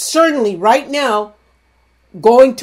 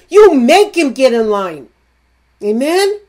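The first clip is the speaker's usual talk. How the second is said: fired-up preaching; 4 dB louder than usual. Real, not acted. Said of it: "I don't know why I'm talking like this".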